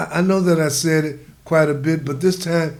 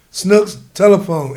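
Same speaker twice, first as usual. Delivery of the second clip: louder, slow call across the house; 4 semitones higher, 8 dB louder than usual. A narrator's reading. Mother calling her son to the phone, loud and slow.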